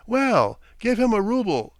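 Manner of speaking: loud. A narrator's reading. Laughing order to waiter.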